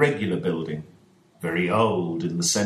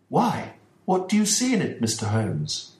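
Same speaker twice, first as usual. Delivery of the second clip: much higher, anxious gentleman's voice; worried father Ferguson; 6 semitones higher than usual. Acted. Ferguson answering Holmes about the dog, higher and uneasy. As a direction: play the troubled host explaining his dog.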